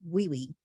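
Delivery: Lily turned into "wee wee". Retold or imitated. Teacher quoting child's name for her, W for L. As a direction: swap the Ls of Lily for Ws. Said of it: "To say the L like a W".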